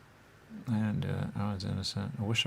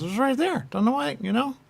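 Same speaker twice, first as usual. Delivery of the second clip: imitating him; 5 dB louder than usual. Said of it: "He goes".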